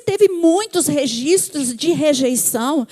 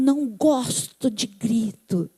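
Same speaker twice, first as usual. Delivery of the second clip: low, slow, measured complaint; firm retold objection; 5 semitones lower, slower than usual. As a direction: imitate a wife slowly laying down a boundary. Retold firm reply to husband. (objeção firme, grave e pausada)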